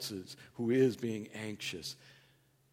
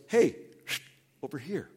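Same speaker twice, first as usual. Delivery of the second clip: a hint of God calling him back gently; gentle call of God. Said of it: "he goes".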